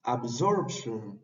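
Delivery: "absorption" drawn out, ab-SORP-shen; slow model word. Shown as a demonstration. Teacher modelling the tion ending, slow "absorption". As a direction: say "absorption" slowly and clearly. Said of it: "tendríamos absorption".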